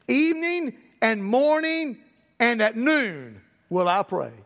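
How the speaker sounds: slow, drawn-out verse recitation; scripture reading. Acted. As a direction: stretch each phrase of the verse solemnly. Reads scripture aloud.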